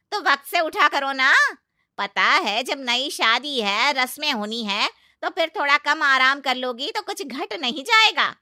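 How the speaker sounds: loud, high nagging lecture; lecturing aunt-in-law. Acted. Aunt-in-law lectures Sheena about waking early, loud nagging. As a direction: lecture the lazy bride.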